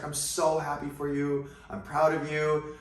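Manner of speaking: lightly imitating a proud, delighted mom; extremely happy mom. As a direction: gush with pride, as mom did. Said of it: "extremely happy".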